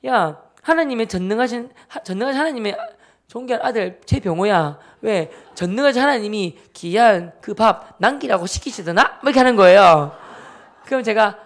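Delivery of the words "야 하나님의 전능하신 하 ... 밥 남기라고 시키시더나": emphatic, preachy sister impression; mock pious scolding. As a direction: lecture little brother with exaggerated solemnity. Sister lecturing brother in God's name.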